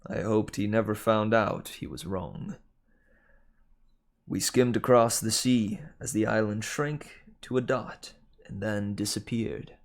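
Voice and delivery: measured audiobook narration; story narration. A narrator's reading. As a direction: read the adventure aloud, clearly articulated. Reads the novel aloud.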